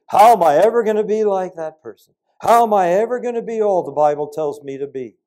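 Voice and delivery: loud, high anxious question; young believer voicing doubt; imitated despair. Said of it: "you think".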